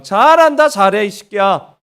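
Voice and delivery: loud mock praise, then a rough jab; exasperated parent's sarcastic outburst; sarcastic scolding. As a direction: bite the kid with fake praise. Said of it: "부모의 사랑".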